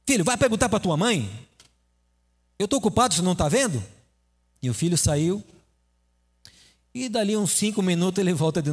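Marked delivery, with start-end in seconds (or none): 0.1-3.8 irritated father. Acted. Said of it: "Aí o pai fica nervoso".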